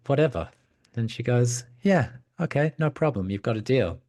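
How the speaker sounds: high, offhand princess; acted airy, dismissive consent; breezy agreement. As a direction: toss off a quick-to-please yes, pitched high.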